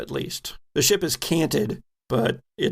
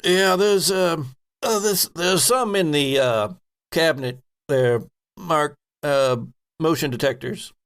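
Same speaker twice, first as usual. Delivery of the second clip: higher ensign voice; 3 semitones higher than usual. Acted.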